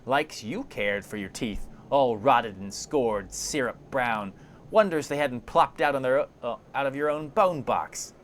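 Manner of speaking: crone huffing back at a corpse; indignant. Acted. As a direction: draw out the insults, rising to a scornful finish. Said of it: "puffs up indignantly".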